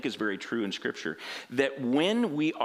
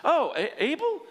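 high mock-innocent shrugging off blame; sugary high sarcasm, louder; passive aggressive; 3 dB louder than usual. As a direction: play dumb with a sneer. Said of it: "listen to the passive aggressiveness".

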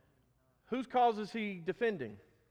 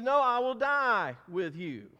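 louder, insistent vow with a firm NO; emphatic; 2 semitones higher, 5 dB louder than usual. Retold or imitated. Peter protesting to Jesus, emphatic. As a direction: insist on it, leaning hard on the words. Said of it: "Because now he's emphatic".

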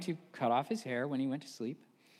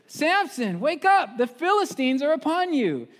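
high, loud shout of warning; alarmed shout; 10 semitones higher, 7 dB louder than usual. Retold or imitated. Delilah shouting to wake Samson. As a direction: rouse a sleeping man in mock alarm.

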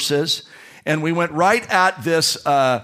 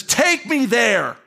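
slow, higher plea to be taken to the grave; Jesus asking; 8 semitones higher, much slower than usual. Acted. Preacher voicing Jesus asking to see the grave. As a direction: ask slowly, heavy with grief.

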